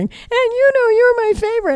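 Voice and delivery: high, sing-song teasing of dad's line; mock sugary favorite-child line; mock doting dad. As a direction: sweetly gush it in a mock dad voice. Mocking dad doting on sister.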